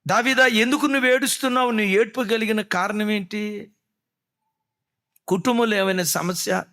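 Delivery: questioner asking David. Acted. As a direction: press him gently, why are you crying. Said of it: "ప్రాణం సొక్కేటట్లుగా ఏడుస్తున్నాడు".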